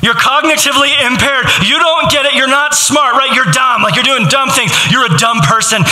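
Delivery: taunting someone as stupid, mock scornful; mock insults. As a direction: sneer out the insults like a bully. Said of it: "It's to say".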